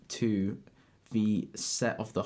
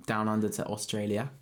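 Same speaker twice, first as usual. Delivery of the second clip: put-on awful Australian accent. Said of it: "That was an awful accent".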